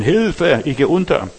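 mock shout for help in German; cry for help. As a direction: call out like someone going under. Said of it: "Ich muss schreien".

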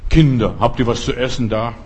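a lightly voiced Jesus asking his disciples for food; low, friendly question to the children; Jesus gently asks his disciples for food. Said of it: "Lukas Kapitel vierundzwanzig, Vers zweiundvierzig".

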